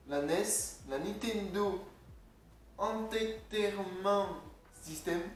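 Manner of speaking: halting English in a French accent. Real, not acted. Vlogger struggling with the console's English name, French accent. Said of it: "mais moi, mon accent anglais".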